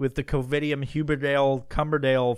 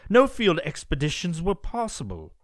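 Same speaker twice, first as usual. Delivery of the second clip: put-on British accent, pitched up a little; 3 semitones higher than usual. Reading the scientist's statement about lockdowns, in a put-on British accent. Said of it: "I'm gonna do this in a British accent".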